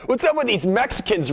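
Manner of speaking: high-pitched mock stand-up opener; imitated hack comic. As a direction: call it out to a club crowd. Acts out a comic bashing Mexicans.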